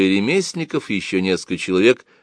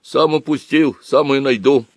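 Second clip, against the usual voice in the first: put-on high, stubborn boyish whine; acted sniffly determination; sobbing boy; 6 semitones higher, 3 dB louder, slower than usual. A narrator's reading. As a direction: protest tearfully from under the bench. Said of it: "Боря всхлипнул под лавкой".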